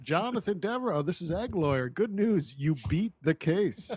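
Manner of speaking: measured, slowing noir lawyer; noir Egg Lawyer. Acted. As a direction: deliver the verdict like a lightly voiced noir detective. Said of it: "Egg turns around smoking a cigarette".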